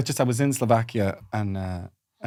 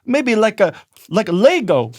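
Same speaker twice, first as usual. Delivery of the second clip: scheming Viking idea; 9 semitones higher, 4 dB louder than usual. Pretend. Acting Viking inventing steps.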